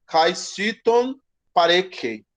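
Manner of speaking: "Kaisiton pareke" drawn out syllable by syllable; slow Greek. Shown as a demonstration. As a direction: spell it out in sound for the class. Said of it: "teacher reads Greek phrase". ("Kaisiton pareke" bem devagar, sílaba por sílaba)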